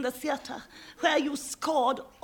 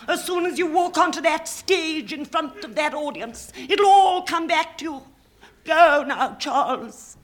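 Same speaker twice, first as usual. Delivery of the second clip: urgent encouragement; 3 semitones higher, 5 dB louder than usual. Acted. Urging the nervous actor on.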